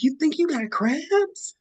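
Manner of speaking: high, slow mock of the sister; sister on the phone. Sister voiced on phone call.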